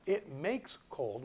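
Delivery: it makes cold, slow and deliberate; mock literal translation; slow literal rendering. Shown as a demonstration. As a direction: drag it out as a clumsy literal translation. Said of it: "which is a literal translation".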